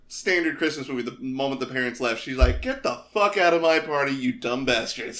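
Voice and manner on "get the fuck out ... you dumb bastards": mock-angry order, voice raised a little; imitated bratty outburst. Monster rich girl to party guests, mock angry. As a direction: play a spoiled party girl throwing people out.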